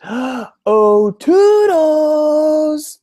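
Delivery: high, loud excited cry; loud eager child call. Pretend. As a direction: shout for help like a kid. Child calling for Toodles.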